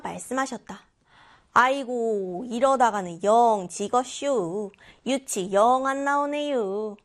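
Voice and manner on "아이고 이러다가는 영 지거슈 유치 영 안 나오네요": slow Chungcheong drawl stressing 영; dad groaning over yut in dialect. Shown as a demonstration. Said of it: "억양을 살려서 이야기를 했죠". (아빠가 윷을 던지며 충청도 사투리로)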